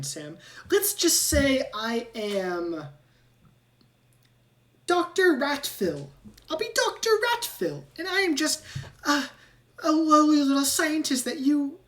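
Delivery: a rat making up an alias; scheming rat. Acted. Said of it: "and he goes".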